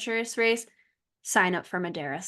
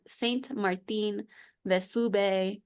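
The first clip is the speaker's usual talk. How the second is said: French place name said the Spanish way; Spanish accent; slower than usual. Real, not acted. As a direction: slip into Spanish pronunciation, slowing down. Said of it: "I went more Spanish with that".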